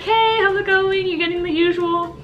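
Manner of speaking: lightly hammed-up cheery service voice; customer service voice. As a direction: put on the friendly barista act. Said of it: "putting up an act".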